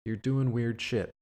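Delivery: mock negotiator. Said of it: "where it's just like".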